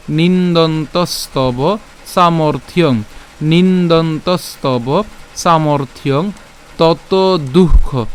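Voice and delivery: slow, deliberate repeat-after-me recitation; joined-up recitation. Shown as a demonstration. Teacher putting the whole pronunciation together, slow measured drill. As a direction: drill each verse phrase slowly, pausing between. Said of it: "পুরোটাই উচ্চারণ আমরা যদি একসাথে করি".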